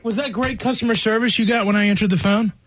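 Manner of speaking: breathless after running; panting a little between words; out of breath. Real, not acted. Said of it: "I'm out of breath".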